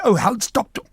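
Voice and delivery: high, loud mock dismissal; dismissive brush-off. Brushing off the warning, airy dismissal. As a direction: wave him off airily.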